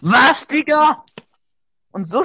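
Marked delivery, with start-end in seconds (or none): 0.0-1.0 shocked disbelief. Real, not acted. Disbelief at friend's low trophies.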